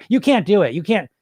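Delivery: the same stuck phrase, pushed a bit harder; mildly insistent pull-string doll; stubborn looping inner voice. Retold or imitated. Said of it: "one of them, those dolls".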